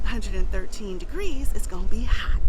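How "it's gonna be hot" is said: hushed, ominous little whisper; mock whisper. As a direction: whisper it like a warning. Joking about extreme Alabama heat.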